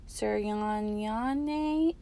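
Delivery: slowly stumbling over Suryanyane; mangled name. A narrator's reading. Teacher trying a hard name, stumbling through it. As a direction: sound out Suryanyane haltingly, unsure of each syllable. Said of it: "attempts to say it out loud".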